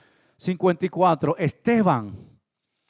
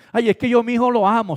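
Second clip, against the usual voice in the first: hammed-up doting mother; pleading mother; 5 semitones higher, faster than usual. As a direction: play the fussing mother. Mother's excuse voiced.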